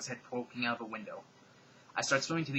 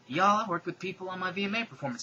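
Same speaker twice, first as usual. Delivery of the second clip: higher, louder Southern twang; pop singer impression; 7 semitones higher, 5 dB louder than usual.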